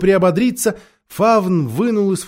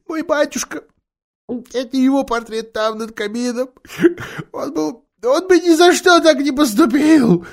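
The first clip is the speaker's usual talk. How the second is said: Faun; 9 semitones higher than usual. A narrator's reading. Faun's voice, tearful.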